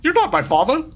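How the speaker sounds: high voice, stressing not; high and let down, lean on not; disappointed son. Pretend. A son tells a stranger he's not his father, high and let down. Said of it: "Why am I talking like this?".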